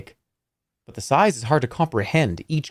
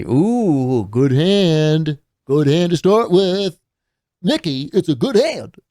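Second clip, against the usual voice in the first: louder, higher dwarf savoring a good hand; gloating dwarf; 4 semitones higher, 4 dB louder, slower than usual. Acted. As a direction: gloat over the dice as the dwarf. Dwarf gloats over dice.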